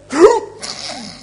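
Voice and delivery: sharp, high rush of breath; loud voiceless whoosh, rising; imitated wind stopping. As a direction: mimic wind cut off suddenly. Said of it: "The wind went".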